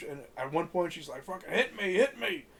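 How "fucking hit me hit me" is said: mock scream. Girlfriend demands he hit her, mock yell. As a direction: yell it up high like a furious girlfriend. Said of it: "she screams at him".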